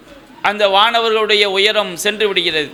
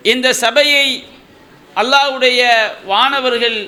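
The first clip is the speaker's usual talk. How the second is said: preaching. Acted. Rising exhortation to audience.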